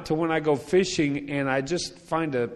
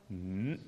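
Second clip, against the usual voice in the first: low, soft dismissive grunt; curt grunt; 5 semitones lower, 9 dB quieter than usual. Retold or imitated. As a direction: grunt back without interest. Neighbor's grunt reply.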